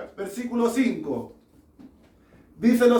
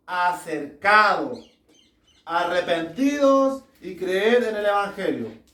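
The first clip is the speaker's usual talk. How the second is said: deliberate preacher's reading with drawn-out key words; measured reading, stretching "se ha acercado"; scripture reading. Real, not acted. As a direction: proclaim the verse phrase by phrase. Reads Mark aloud to congregation.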